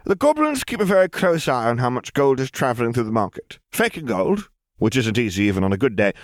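put-on high, eager young girl laying out a plan; a clever girl showing off her scheme; voicing Lily explaining the counterfeit plan; Lily's scheming girl voice. A narrator's reading.

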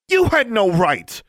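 loud, high-pitched, drawn-out yell; furious shout. A narrator's reading. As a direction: hurl it as an outraged accusation. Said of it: "Alexandra shouted".

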